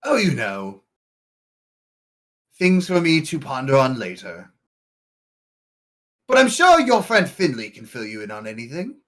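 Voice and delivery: an airy NPC voice. Acted. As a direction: brush it off like a smug scholar. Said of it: "he would say".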